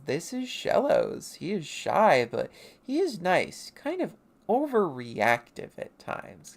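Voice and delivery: high, slow lightly voiced creature; childlike character voice. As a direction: introduce a friend slowly in a high little voice. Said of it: "And then Eggy says".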